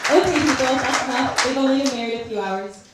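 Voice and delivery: calling over applause. Real, not acted. Hushing the cheering guests.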